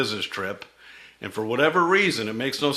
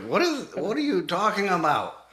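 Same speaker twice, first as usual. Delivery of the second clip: higher, bewildered "what are you talking about"; baffled outburst; 7 semitones higher, 3 dB louder than usual. Retold or imitated. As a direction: throw up your hands, totally lost. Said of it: "I was like".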